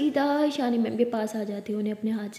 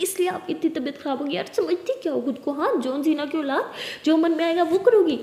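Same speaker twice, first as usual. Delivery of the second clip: mildly exasperated, higher-pitched telling-off; scolding; 4 semitones higher than usual. Acted. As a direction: scold her with a touch of exasperation. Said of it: "डांटती रहोगी". (हल्की डांट लगाते हुए)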